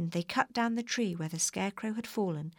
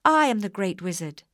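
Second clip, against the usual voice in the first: much louder booming voice from above; booming wizard; 3 semitones higher, 9 dB louder than usual. A narrator's reading. Hidden wizard booming at the visitors. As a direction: boom it down from on high. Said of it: "said a voice high above them".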